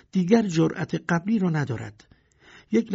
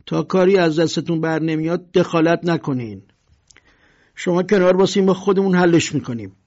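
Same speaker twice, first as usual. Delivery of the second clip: loud, domineering dismissal; louder bully's order; bullying; 2 semitones higher, 6 dB louder than usual. Acted. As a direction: push the neighbours aside with words.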